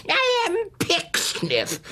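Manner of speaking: very high, very slow, unctuous; high, drawn-out character voice; oily Pecksniff. Acted. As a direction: stretch it out like a smug hypocrite. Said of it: "a different voice for each character".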